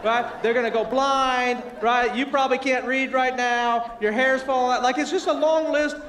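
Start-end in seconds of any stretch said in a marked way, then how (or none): 0.0-4.8 mock warning label, loud and insistent; hammed-up prophet of disaster; doom and gloom. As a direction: pile up dire warnings with exaggerated force. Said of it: "It's doom and gloom".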